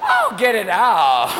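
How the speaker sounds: hammed-up woman giving birth; mock birth cries. Wife delivering the baby.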